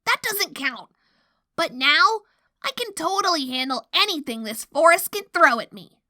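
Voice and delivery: high-pitched cocky character voice; defensive boast. A narrator's reading. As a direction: brush it off, then brag briskly. Boastful pony defends herself.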